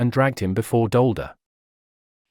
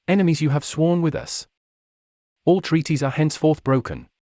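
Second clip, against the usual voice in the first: raging; 4 semitones higher than usual. A narrator's reading. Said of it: "he raged".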